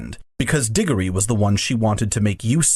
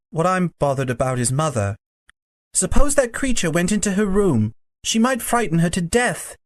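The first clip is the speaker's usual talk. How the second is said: worried Diggory; 7 semitones higher than usual. A narrator's reading. Voices Diggory in the story.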